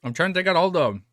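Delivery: talking with a watery mouth. Real, not acted. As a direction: speak through excess saliva. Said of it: "my mouth is so watery".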